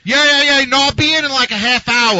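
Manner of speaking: high, loud phone chatter; loud cell phone talker. Retold or imitated. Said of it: "the guy on the bus who has to talk loud on his cell phone".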